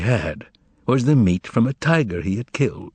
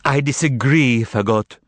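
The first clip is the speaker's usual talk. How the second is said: retort; 6 semitones higher, 3 dB louder than usual. Acted. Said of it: "retorted the cat".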